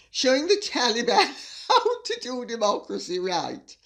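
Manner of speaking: reading broken by a laugh; laughing while reading. Real, not acted. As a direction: try to read on through the giggles. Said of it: "I'm sorry for laughing".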